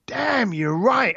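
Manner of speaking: high, drawn-out retold admission; retold stunned concession, stretched out; dawning realisation. Retold dawning realisation after the sucker punch.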